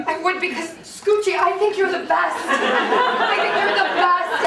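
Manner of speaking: awkwardly earnest, halting talk to a dog; regular-person voice. Acted. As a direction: address the dog like an adult friend. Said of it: "talk to him like a regular fucking person".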